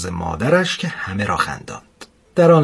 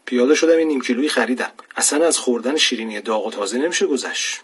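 lively, slightly raised phone-message voice; chatty caller; 3 semitones higher than usual. Acted. Friend leaving a voicemail about fresh pastries, chatty and eager. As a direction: rattle it off brightly, in a hurry.

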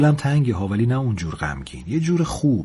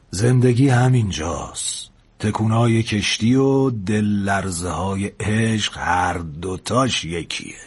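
very slow, measured wisdom; unhurried philosophical older man; older sailor, reflective; much slower than usual. Acted. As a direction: draw each phrase out for the young man.

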